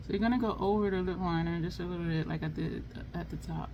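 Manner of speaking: talking without moving lips; closed mouth talking. Real, not acted. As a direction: lips held still while applying lipstick. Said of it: "Trying to talk without moving your lips is kinda challenging".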